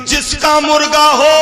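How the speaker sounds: loud call. Retold or imitated. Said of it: "बड़ी जोर से आवाज दी".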